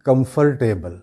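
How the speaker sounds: "کمفرٹیبل" with the "fur" syllable fully sounded; common mispronunciation. Shown as a demonstration. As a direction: say "کمفرٹیبل" as kum-fur-table, R pronounced. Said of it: "جس کو عام طور پہ ہمار-، جو ادا کرتے ہیں". ("کمفرٹیبل" عام غلط تلفظ، "فر" پورا ادا کر کے)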